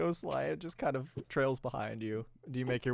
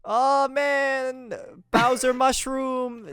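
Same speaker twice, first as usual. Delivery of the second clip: higher, louder goofy Mario rambling; high-pitched Mario; 8 semitones higher, 6 dB louder than usual. Pretend. Ad-libbing a movie plug in squeaky Mario. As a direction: keep the bad Mario voice going. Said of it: "Do your worst Mario impression, but high pitched".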